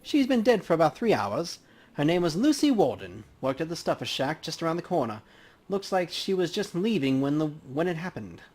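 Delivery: easygoing professional banter at a crime scene; lightly voiced coroner. Dresden briefs detective.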